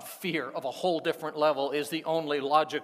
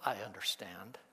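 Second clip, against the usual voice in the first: soft sympathetic; 7 semitones lower, 7 dB quieter than usual. Pretend.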